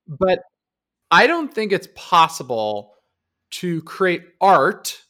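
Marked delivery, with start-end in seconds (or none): 3.5-5.0 "art" stretched out and set apart by pauses; stress on art. Real, not acted. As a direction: lean slowly and firmly on "art". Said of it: "I'm gonna emphasize the word art".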